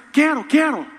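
high, loud pleading yell; desperate shout. Pretend. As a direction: beg to get in. Begging to enter heaven. (grito desesperado e agudo)

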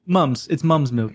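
put-on British accent on mum's. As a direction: correct it into British English. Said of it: "say it in a British accent".

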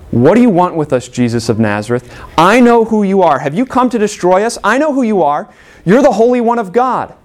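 the demon unmasking Jesus, growing shrill; agitated demon voice. Acted. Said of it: "And he says".

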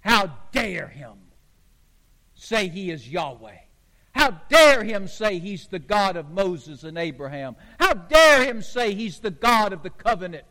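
acted low-pitched indignation, leaning on DARE; indignant outrage. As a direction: voice bristling religious leaders, controlled outrage. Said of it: "bristling up".

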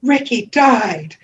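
high, drawn-out mock announcement of bad news; mock distressed cry. Friend runs over with bad news, mock distressed cry. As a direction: cry it out slowly and high, hammed-up.

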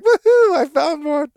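high, loud gleeful holler, re-enacted; excited whoop. Excited trainee radioing in a woodpecker find, whooping triumphantly.

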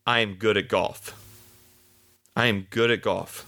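firm, steady and sure, lean on "I am"; calm confident affirmation; with conviction. Shown as a demonstration. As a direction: state it as plain fact. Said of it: "You have to say it with conviction".

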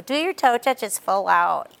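imitating a whiny captain, slow and drawn out; slow, mildly whiny nagging captain. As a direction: whine it like a lazy captain nagging. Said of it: "kind of in that whiny voice".

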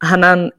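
Hanan with open back a's; last name variant. Shown as a demonstration. Host listing accepted versions of her name, open-vowel "Hanan". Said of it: "I don't really mind how it is pronounced".

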